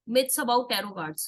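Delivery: very slow, spelled-out heading; slow topic heading. Real, not acted. Tarot teacher announcing the next topic to her class, very slow.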